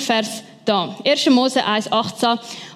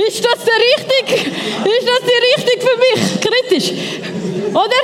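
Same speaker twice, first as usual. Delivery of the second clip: mock anxious doubting; 9 semitones higher than usual. Voicing a doubting partner, laughing.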